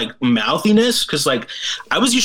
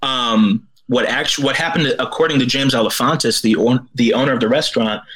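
out of breath from the stairs; winded, catching breath between words; gasping for air. Real, not acted. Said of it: "sorry, I'm out of breath".

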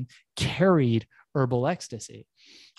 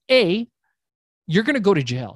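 bold declaration; 6 semitones higher, 6 dB louder than usual. Retold or imitated. Pitching the dealer boldly.

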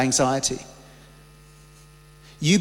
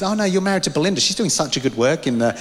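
quick correction. Retold or imitated. People who know his wife better, quickly correcting him. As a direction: rush it like a fan brushing him aside.

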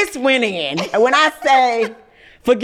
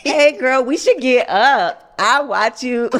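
cheery networking; 3 semitones higher than usual. Retold or imitated. Inviting the host to lunch, cheery networking. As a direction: sell it like a networking pitch. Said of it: "real cheery, like, network".

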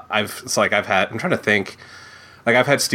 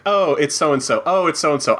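higher-pitched, falling little exclamations; mock casual recognition; 6 semitones higher than usual. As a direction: act out spotting someone you recognize. Acting out spotting people at a con.

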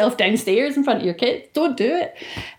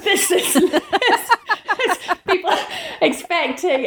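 baffled Amazon reviewer; 9 semitones higher, slower than usual. Retold or imitated. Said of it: "it's just people going".

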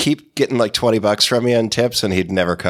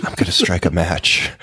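ASMR voice; 6 semitones lower than usual. Shown as a demonstration. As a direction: play it like an ASMR video host. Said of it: "the A S M R thing".

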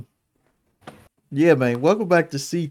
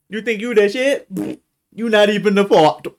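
mocking taunt; 5 semitones higher, 3 dB louder than usual. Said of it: "mocking the song title".

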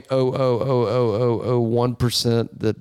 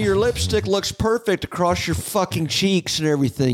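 sarcastic reassurance; 7 semitones higher than usual. Pretend.

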